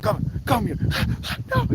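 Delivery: high, breathless mock dragging; playful coaxing. Friends dragging a reluctant Mel into the light, high playful coaxing. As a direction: coax someone into the light, half-laughing. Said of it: "We're like".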